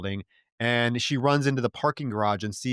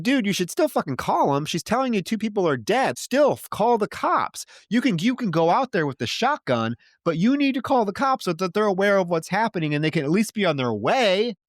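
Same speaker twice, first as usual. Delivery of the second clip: exasperated rant; 7 semitones higher than usual. Retold or imitated. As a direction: yell at the screen in disbelief, pitched well up. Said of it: "And I'm like".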